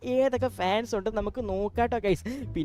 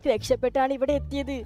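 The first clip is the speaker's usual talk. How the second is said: talking car voice. Acted. Car tells its story.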